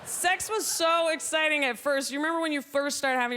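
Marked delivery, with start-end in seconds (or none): none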